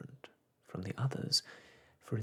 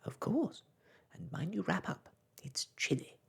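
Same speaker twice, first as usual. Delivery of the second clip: bossy star voice; 7 semitones higher than usual. Acted. Star voice answers.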